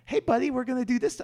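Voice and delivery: high, fast, sing-song talking down; mock a worker soothing a child; patronizing social worker. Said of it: "be like".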